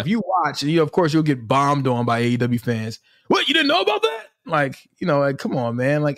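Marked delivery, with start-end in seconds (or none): 3.3-4.2 high, scoffing mock disbelief; condescending fan. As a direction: sneer like a know-it-all fan. Mocking condescending AEW fans.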